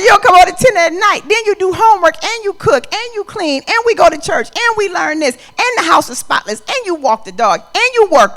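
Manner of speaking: high, loud, breathless list of complaints; teen daughter ranting at her mother; exasperated daughter. Retold or imitated. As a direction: rattle it all off, fed up and loud. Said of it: "She's like".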